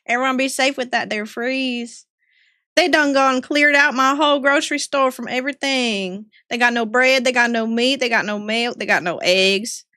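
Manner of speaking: lightly voiced Southern grumble; a country gossip listing empty shelves; Southern accent. Streamer in Southern accent complaining about the store. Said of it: "The accent's back".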